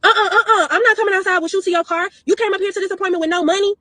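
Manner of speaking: high, laughing mock of the stylist. Vlogger mocks the stylist refusing her car, laughing mock voice. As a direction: sneer it like the rude stylist.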